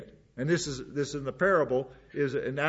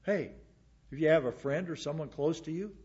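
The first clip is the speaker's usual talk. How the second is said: gentle concern; 4 semitones higher, 4 dB quieter than usual. Retold or imitated. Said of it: "you can talk to a believer".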